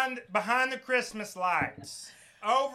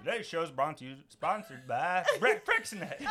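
mock ad read; 3 semitones lower, 5 dB quieter than usual. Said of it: "terrible commercial read".

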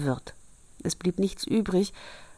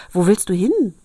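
calling out; 7 dB louder than usual. Acted. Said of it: "sagte Rosenrot".

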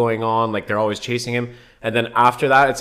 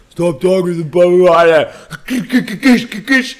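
mock angry redneck; 8 semitones higher, 8 dB louder, much slower than usual. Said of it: "the guy's gonna be like".

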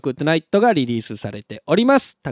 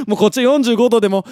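laughing; 5 semitones higher, 4 dB louder than usual. Real, not acted. Laughing at the Kansai man.

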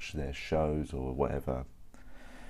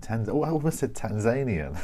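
surprised catch; 7 semitones higher, 6 dB louder than usual. Real, not acted. Catches own mispronunciation, laughing.

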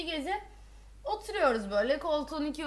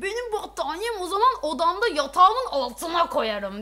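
louder, higher huffy mimicry; imitating a defiant roommate, raised voice; sulky retort; 4 semitones higher, 5 dB louder than usual. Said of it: "Aynen bu tonlamayla söyledim".

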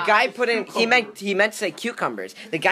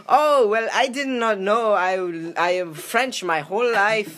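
lightly voiced Yan, higher and slower; mock French accent; 4 semitones higher, 4 dB louder than usual. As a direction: play Yan as clumsy and a bit embarrassed. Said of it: "That's not how I talk".

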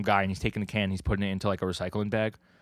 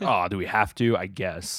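reluctant. Retold or imitated. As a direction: imitate a half-hearted agreement. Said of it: "he gives like that same energy".

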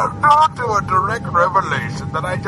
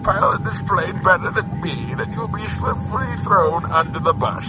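pilot announcement. Acted. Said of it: "I'm Mark Driscoll, pilot".

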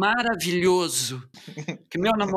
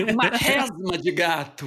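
laughing. Real, not acted. Laughing at own joke.

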